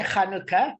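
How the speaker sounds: Chanukah with a guttural Ch; South African pronunciation. Shown as a demonstration. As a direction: start Chanukah on a throaty kh. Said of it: "So we say".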